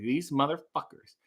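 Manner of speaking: whispered envious grumble; jealous whisper. Retold or imitated. Streamer recalling jealousy over a sponsorship, whispered. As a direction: hiss it under your breath in envy. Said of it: "I was so jealous".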